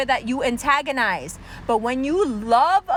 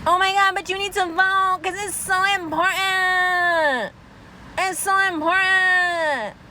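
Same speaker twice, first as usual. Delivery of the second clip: high, breathy-free mock earnest plea, higher pitch; mocking liberal voter; 4 semitones higher than usual. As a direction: parody a preachy liberal begging you to vote.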